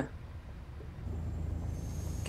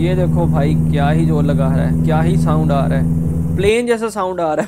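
1 loud excited; 5 dB louder than usual. Real, not acted. Engine roaring on climb.

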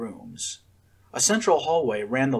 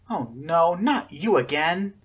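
higher, slow, a touch of a moan; mild moan; 5 semitones higher, slower than usual. A narrator's reading. Scarlet seeing the bullying twins, lightly moaning. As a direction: groan it out, dreading them. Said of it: "she moaned".

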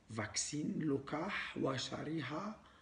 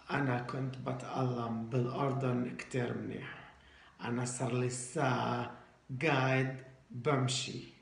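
put-on broken Arabic foreign accent. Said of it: "إحنا لازم نحكي عربي مكسر".

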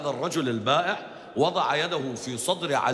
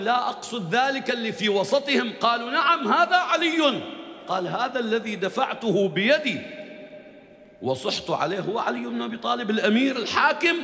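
stunned disbelief; 7 semitones higher than usual. Retold or imitated. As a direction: gasp it out in disbelief. Stunned seller learns who Ali is. (البائع المذهول يسأل بدهشة عالية)

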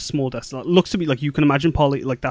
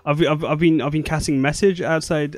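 higher, stammering worried mother, rising to loud questions; a frantic mother, tripping over words; anxious mother; 4 semitones higher, 5 dB louder than usual. Acted. Mother fussing over her returned daughter, worried and stammering.

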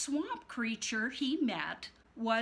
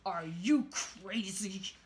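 whisper; 2 semitones lower than usual. Acted. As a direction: whisper it in disbelief. Creatures incredulous.

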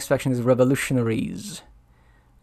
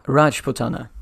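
"Rajputana" with the weight on RAJ; stress on first syllable. Shown as a demonstration. Gamer checking a place name, stressing the first syllable. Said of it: "The stress on the first syllable".

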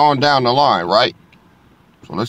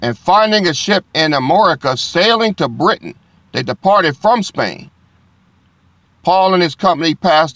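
preacher proclaiming scripture to the congregation; scripture reading; 2 semitones higher than usual. Acted. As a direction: lift the verse like a proclamation. Rereads the passage aloud.

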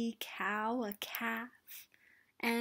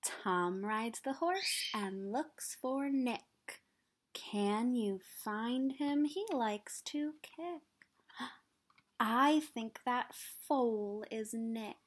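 put-on reading to children. Reading picture book to children.

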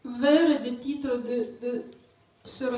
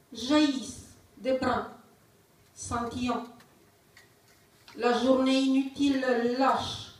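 measured poem recital with long pauses; poetry reading. Acted. Poet reading to an audience, poetry reading. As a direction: recite line by line, letting each image hang. Reads own poem aloud.

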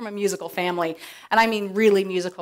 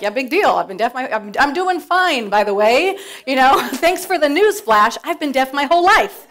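put-on sassy imagined kid; 4 semitones higher, 8 dB louder than usual. Voicing daughter's sarcastic reply.

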